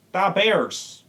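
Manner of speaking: mock Chicago sports-fan accent. Mocking the fake lawyer's voice with a Chicago accent. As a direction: imitate a thick Chicago accent. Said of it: "It sounded like he was from Chicago".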